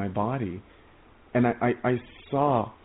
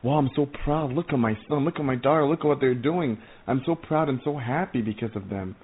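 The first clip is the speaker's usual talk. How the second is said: proud heavenly father; 3 semitones higher than usual. Pretend. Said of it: "look down on earth from heaven and say".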